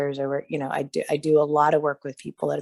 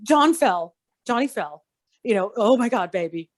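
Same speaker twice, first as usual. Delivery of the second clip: put-on higher-pitched fretting over the fallen boy; mock panic; 4 semitones higher than usual. Parent fussing over fallen Johnny, mock panic. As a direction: act the flustered parent, half-hearted.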